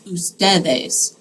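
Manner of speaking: teacher modelling the ustedes form slowly; slow model phrase. Shown as a demonstration. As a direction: stretch "tuvieron" out slowly. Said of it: "y'all had a test".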